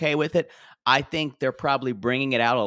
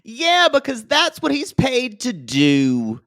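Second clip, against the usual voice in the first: loud, high and drawn out; high, slow, emphatic retort; exasperated outburst; 9 semitones higher, 6 dB louder than usual. Real, not acted. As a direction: call it out like it's obvious. Exasperated reply to co-host.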